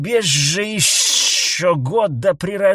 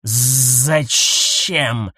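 suspicious; 4 dB louder than usual. A narrator's reading. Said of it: "подозрительно бросил крулянец".

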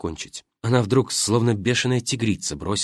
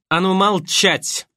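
slow, higher, louder command; wife shouts down the actress, slow and loud; sharp shout; 8 semitones higher, 4 dB louder, slower than usual. Acted. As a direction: snap her into silence. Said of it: "прикрикнула Симушкина на актрису".

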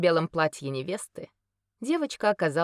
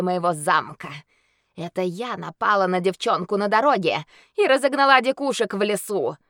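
snarling werewolf boast; 4 semitones higher, 7 dB louder than usual. Acted. Werewolf boasts her crimes.

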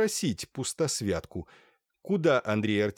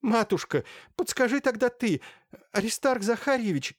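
pitched-up begging cry; high pleading; 10 semitones higher than usual. A narrator's reading. Merchant's wife begs Sofya for advice, high pleading. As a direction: implore her, voice high and strained.

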